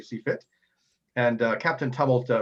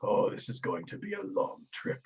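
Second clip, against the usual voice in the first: soft, higher weary groan of a line; weary dread; 7 semitones higher, 8 dB quieter than usual. Acted. Companion rubbing his temples while boarding, mildly weary dread. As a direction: sigh it out, lightly exasperated.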